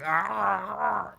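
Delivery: retold choke, a strangled "Ah" that won't come out; choked stammer. Mild mock choke on a stuck word. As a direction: rookie wholesaler freezing at his first door, choked gasp. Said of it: "I choked up 'cause I couldn't get it out".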